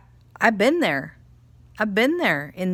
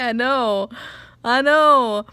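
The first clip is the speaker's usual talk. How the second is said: laughing agreement; 6 semitones higher, 9 dB louder, slower than usual. Retold or imitated. Laughing reply to baffled Alex.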